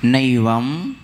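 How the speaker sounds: नैवम with a wide "ai", as "naivam"; ai vowel. Shown as a demonstration. Teacher models नैवम for pupils with a full "ai". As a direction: open the first vowel of नैवम into "nai". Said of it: "नैवम नहीं पढ़ना".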